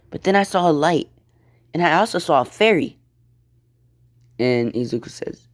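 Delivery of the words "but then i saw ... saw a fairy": put-on child's voice. Child recounts the afterlife.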